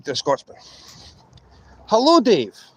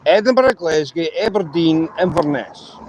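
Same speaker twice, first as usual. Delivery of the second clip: Scottish accent. Shown as a demonstration. Demonstrating how to say the places, Scottish accent. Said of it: "say this all in a Scottish accent".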